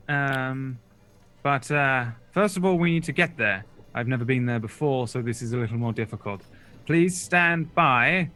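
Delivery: brief him like a pilot; wizard briefing. Acted. Griselda briefs Boulder on the rescue, lightly voiced. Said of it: "she says".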